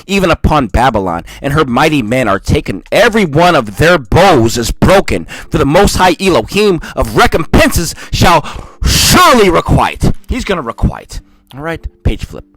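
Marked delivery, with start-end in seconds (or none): 0.0-10.1 measured, solemn Bible reading; scripture reading. Acted. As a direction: read the verses like a preacher. Reads scripture aloud.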